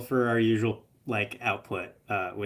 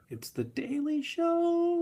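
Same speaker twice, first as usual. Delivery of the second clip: excited reveal; slower than usual. Real, not acted. Announcing the answer.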